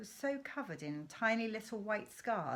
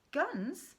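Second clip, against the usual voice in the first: gasped; 8 semitones higher, 3 dB louder than usual. Acted. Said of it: "I gasped".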